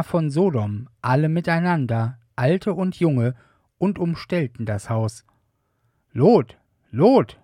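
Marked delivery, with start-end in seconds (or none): 6.1-7.4 loud, hammed-up crowd calling a name; mob calling out. A narrator's reading. Men of Sodom shouting for Lot at his door, loud calls. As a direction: call out like an angry mob at the door. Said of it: "riefen sie".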